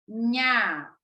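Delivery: "nha" alone, drawn-out nya; NH syllable. Shown as a demonstration. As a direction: isolate "nha" for repeating. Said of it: "Repitam aí em casa".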